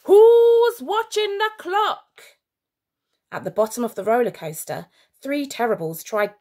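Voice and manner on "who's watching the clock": high, slow, strange beast roar; roaring monster. A narrator's reading. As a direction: roar it out like a huge brute. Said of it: "it roared".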